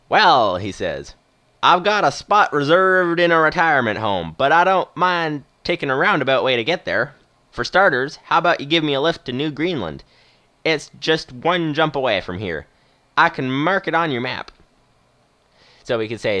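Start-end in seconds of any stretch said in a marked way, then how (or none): 0.1-0.6 put-on loud Western old-timer; stretched-out Western accent. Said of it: "doing a sort of Western accent". 1.6-14.5 put-on Western movie old-timer making a proposal; playful Western movie accent with drawn vowels. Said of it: "doing a sort of Western accent".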